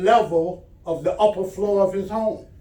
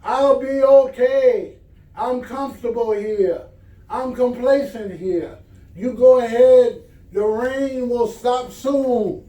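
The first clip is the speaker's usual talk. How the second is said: calling back; 5 semitones higher, 3 dB louder than usual. Acted. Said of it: "The man called back".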